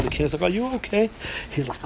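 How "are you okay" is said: puzzled king. Acted. King voiced in story.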